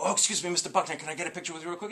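soft, tentative fan voice; polite request. Retold or imitated. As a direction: re-enact shyly asking a celebrity for a favour. Fan timidly asking for a photo.

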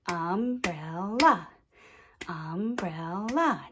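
"Umbrella" in three even beats; clapped syllables. Shown as a demonstration. Teacher clapping with children, "Umbrella" split into syllables. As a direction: clap out "Umbrella" as um, brel, la. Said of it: "Let's clap it".

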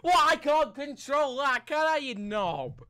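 high, loud comeback; exasperated yelling at a mate; indignant protest. Real, not acted. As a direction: shout back, easing slightly at the end. Arguing back about the match.

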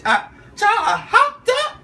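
high, breathless giggly excitement; can't contain the thrill; giddy laughing. Real, not acted.

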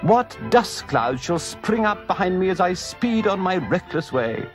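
high, swooning ecstatic toad; rapture. Acted. Toad rhapsodizing to his friends, ecstatic. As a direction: gush over the joy of motoring. Toad raving about motoring.

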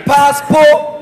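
"Passport" with no T at the end; dropped final T. Shown as a demonstration. Mimicking the American's passport, final T in "Passport" left silent. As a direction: stretch "Passport" and leave off its last T. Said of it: "I no dey even dey hear the T for the ending".

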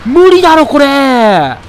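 high, loud exasperated outburst; frustrated yell. Real, not acted. Gamer yelling at the monster's wind attack, loud and exasperated. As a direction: yell it like a hit just wrecked you.

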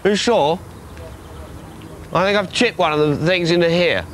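lightly voiced innocent golfer looking for a ball; innocent golfer act. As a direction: play the lost golfer, all innocence. Pretends to be lost golfer.

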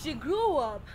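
measured lines with long dramatic pauses; poetic recitation. Acted. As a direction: recite it like a spoken-word self-portrait, phrase by phrase. Recites poetic third-person self-portrait.

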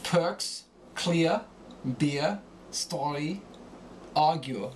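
"Perks, clear, beer, story, argue" with German guttural R; guttural R endings. Shown as a demonstration. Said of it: "R endings become guttural".

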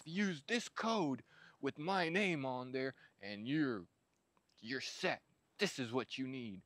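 mock the sponsored video hype; sponsor pitch. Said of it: "not gonna be every single video".

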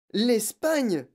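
high, loud outcry of disbelief; stunned girl crying out; shocked exclamation. A narrator's reading. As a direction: exclaim in dismay. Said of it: "s'exclama Mathilda".

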